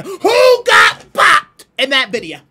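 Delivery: building to a slow, loud, high yell; mock outraged shout. Streamer yells at chat, denying he got bopped.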